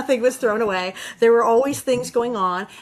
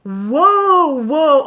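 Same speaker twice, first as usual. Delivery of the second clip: loud, rising alarmed whoa; a mock double-take; startled whoa; 3 semitones higher, 7 dB louder than usual. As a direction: pull up short in alarm. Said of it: "he's like".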